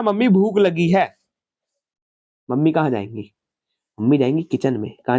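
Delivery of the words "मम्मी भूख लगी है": slow, drawn-out whine for food; mock-whine like a lazy son; whiny kid to mom. Lazy elder son telling mom he's hungry, slow mock whine. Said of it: "आपने mummy को बोला".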